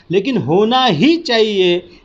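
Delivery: emphatic ही; stress on ही. Shown as a demonstration. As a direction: hit ही, keep the rest even. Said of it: "इसमें ही पर हम बल देते हैं".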